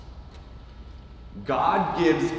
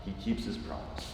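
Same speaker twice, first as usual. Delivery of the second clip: whispered, keeps leaned on; whispered repeat; 8 semitones lower, 14 dB quieter than usual. Acted. Preacher whispering the promise back to the congregation. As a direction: breathe it as a hushed echo.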